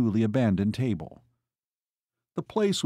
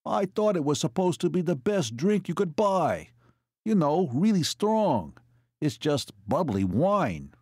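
unhappy; 6 semitones higher than usual. A narrator's reading. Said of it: "took another unhappy sip".

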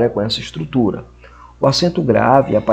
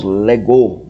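"legou" with the stress on GOU; stress on last syllable; 4 dB louder than usual. Shown as a demonstration. Teacher giving an example of final accent, stressed last syllable. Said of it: "leva o acento circunflexo na última sílaba".

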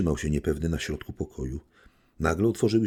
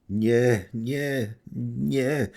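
higher, mildly pained repeated no; a touch of grief, crying out no; boundless sorrow; 8 semitones higher, 3 dB louder, much slower than usual. A narrator's reading. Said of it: "zawołał książę z bezgranicznym smutkiem". (z nutą bezgranicznego smutku, wyżej)

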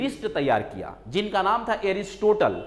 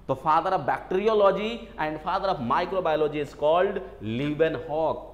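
slow dictation; much slower than usual. Shown as a demonstration. Teacher dictating exam answer.

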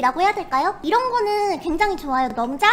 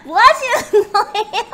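laughing; 3 semitones higher, 5 dB louder, slower than usual. Real, not acted. Laughing at someone off mic.

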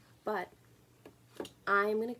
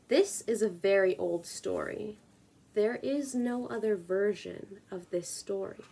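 measured reading with long pauses; poetry reading. Acted. Reading the Worm King's Lullaby for a video, measured poetry reading. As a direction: read each image deliberately, letting the lines hang. Reads a poem aloud.

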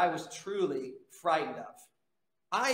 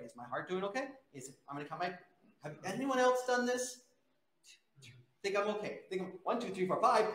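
anxious self-talk; 4 dB quieter, faster than usual. Retold or imitated. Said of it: "always being afraid".

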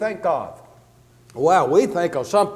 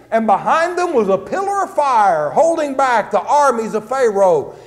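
raised, driving sermon storytelling; animated preaching; 4 semitones higher than usual. Real, not acted. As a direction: preach the story with rising energy. Preacher retells the Red Sea crossing.

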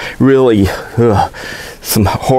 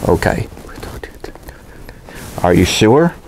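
hushed unvoiced whisper; 5 semitones lower, 5 dB quieter than usual. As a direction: breathe the words with no voice, secretly. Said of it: "I have to whisper it".

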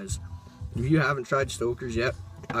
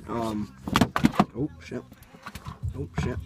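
talking with a dip in; words around a wad of snuff; chewing tobacco. Real, not acted. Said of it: "I pack a dip this big".

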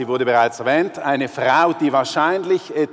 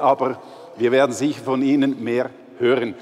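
ordinary delivery

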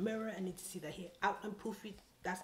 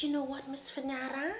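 higher and louder, pointed; 8 semitones higher, 6 dB louder than usual. Retold or imitated. Finally confronting the stylist, higher and pointed. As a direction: call her out by name.

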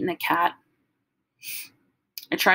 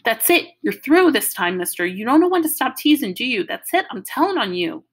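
sounding crazy; 4 semitones higher, 4 dB louder than usual. Acted. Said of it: "she was sounding real crazy".

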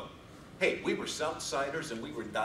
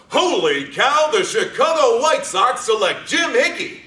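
yelling the draft pick with joy; excited shout; 8 semitones higher, 12 dB louder, slower than usual. Retold or imitated. Brother cheering the draft call, excited shout. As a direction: shout it like the name just got called.

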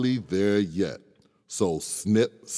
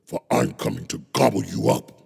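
troll voice; much faster than usual. Acted. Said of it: "said the troll".

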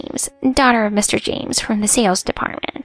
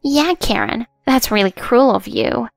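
fake crying; 2 semitones higher than usual. Jennifer accusing Karen before the manager, pretending to cry. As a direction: play the wounded victim, lightly. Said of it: "pretending to cry again".

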